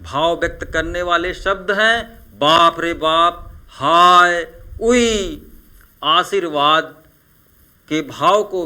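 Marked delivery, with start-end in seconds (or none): 2.4-5.4 hammed-up fearful cries, louder on हाय; mock alarmed exclamations; mock fright. Shown as a demonstration. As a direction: pretend to be scared. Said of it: "भय का भाव".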